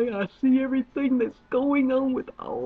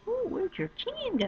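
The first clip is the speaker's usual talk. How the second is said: mocking onlookers; 12 semitones higher, 3 dB quieter than usual. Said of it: "everybody looks at you and go".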